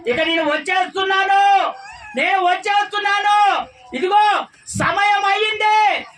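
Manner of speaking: fervent shout rising; rising proclamation. Real, not acted. Preacher voicing God's coming.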